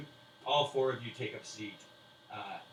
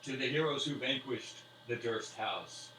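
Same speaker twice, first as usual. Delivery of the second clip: slow toast; 2 semitones higher, 4 dB louder, slower than usual. Acted.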